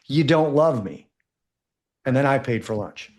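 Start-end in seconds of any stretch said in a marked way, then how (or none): 0.1-1.1 slow, emphatic correction; retold, deliberate brush-off; firm rebuff. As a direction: spell it out slowly to put him straight. Retold rebuff of stranger's affection.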